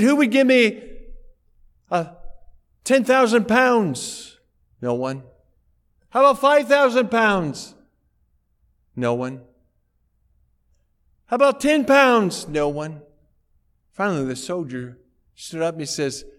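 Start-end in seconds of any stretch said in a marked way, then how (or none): 0.0-4.4 auctioneer calling bids. Retold or imitated. 6.1-7.7 auctioneer calling bids. Retold or imitated. 11.3-12.5 auctioneer calling bids. Retold or imitated.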